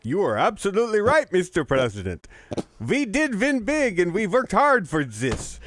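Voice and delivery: put-on a botched Ukrainian accent that drifts toward Count Chocula; bad Ukrainian accent. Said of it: "You sound like Count Chocula".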